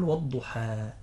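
"والضحى" ending on an open long a; final alif. Shown as a demonstration. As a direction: end "والضحى" in a pure alif, no h. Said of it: "ها، هذه ألف".

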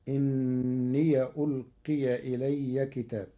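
slow إني with open ya, inniya; Warsh reading. Shown as a demonstration. الشيخ يقرأ إني بفتح الياء. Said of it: "بفتح ياء الإضافة".

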